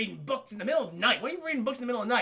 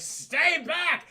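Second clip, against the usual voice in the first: higher and louder, defensive; mock warning yell; 9 semitones higher, 5 dB louder than usual. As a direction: shout to keep him away. Morbius warns in retelling.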